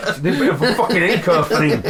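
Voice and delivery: words forced out through clenched teeth; through gritted teeth. Shown as a demonstration. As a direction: say it with the jaw locked tight. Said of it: "through gritted teeth".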